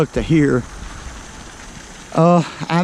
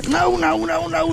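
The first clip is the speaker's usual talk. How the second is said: high, rising alarm as the fish gets loose; panicked pleading as the bass slips away; dismayed no; 12 semitones higher than usual. Real, not acted. Angler watching his bass escape, high alarmed cry.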